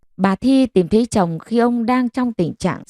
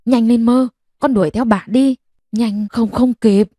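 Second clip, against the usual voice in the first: urging hurry; 3 semitones higher than usual. Acted. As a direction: push her to run after the cart. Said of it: "rồi giục giã".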